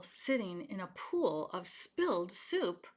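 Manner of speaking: gentle read-aloud storytelling voice; story narration. Acted. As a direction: read it to children at bedtime. Reading picture book aloud.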